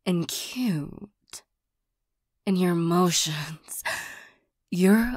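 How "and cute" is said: demonic whisper. Acted. Demon flattering the listener.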